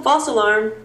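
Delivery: high, loud cheering; excited cheer. Retold or imitated. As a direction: cheer like it's fixed. Celebrating the bus restarting.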